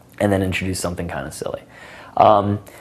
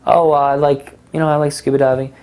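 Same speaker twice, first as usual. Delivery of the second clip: higher, lighter mock girl voice; imitating a woman; 8 semitones higher, 3 dB louder than usual. Shown as a demonstration. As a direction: play her chirpy answer.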